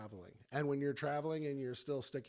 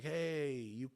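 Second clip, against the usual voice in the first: higher, louder mock Australian greeting; bad Australian accent; 4 semitones higher, 3 dB louder than usual. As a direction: attempt a fake Australian accent. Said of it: "fake Australian accent".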